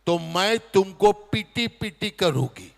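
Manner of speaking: slow, singsong mock-cute scolding; baby-talk threat. Mother coos a cutesy threat at her dog, slow and sweet. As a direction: coo a threat at the dog like a toddler.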